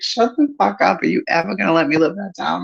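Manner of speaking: high put-on irritated voice; mock annoyed cousin. Cousin Christy tired of the teasing, high mock irritation. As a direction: snap back like the annoyed cousin. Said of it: "She was like".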